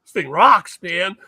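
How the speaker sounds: loud, emphatic enthusiasm on rocks; excited. Retold or imitated. Inventor retelling his creek test to listeners, excited. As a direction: punch it out like a thrilled product maker. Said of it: "I'm excited".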